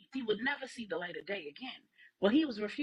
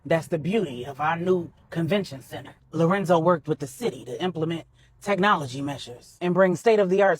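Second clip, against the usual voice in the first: put-on a lightly lowered, firm older man; Manny, firm and protective; 3 semitones lower, 10 dB louder than usual. A narrator's reading. Manny warns Corey his island is safe, lightly voiced and firm. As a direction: lay down the law on his own turf, steady.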